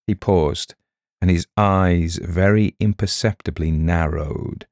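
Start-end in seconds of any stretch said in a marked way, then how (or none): none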